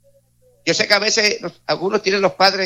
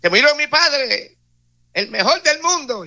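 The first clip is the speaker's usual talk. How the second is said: put-on grieving child; 7 semitones higher, slower than usual. Preacher voices grieving child.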